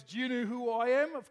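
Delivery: demanding caller. Acted. Caller confronting his pastor at two A M, loud demand. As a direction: raise the voice like an indignant caller. Acting angry late-night phone caller.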